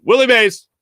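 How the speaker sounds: Harry Kalas. Retold or imitated. Old announcer ribbing the nervous kid, lightly voiced. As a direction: tease the nervous kid affectionately. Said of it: "caught my nervous sweats and went".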